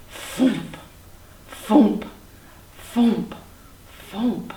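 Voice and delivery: short, puffed, separate thumps; thumping wingbeats. A narrator's reading. Flying dinosaur approaches from above, short puffed thumps. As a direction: puff out each flap of big wings. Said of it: "from up above he heard".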